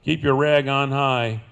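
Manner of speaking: cowboy poem recitation; cowboy twang. Acted. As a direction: recite it like a trail-worn cowboy poet.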